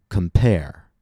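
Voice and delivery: "compare" slow, weight on the second syllable; light prefix, long strong root in "compare"; stress on the root. Shown as a demonstration. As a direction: model "compare", stressed at the back. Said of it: "we stress the root".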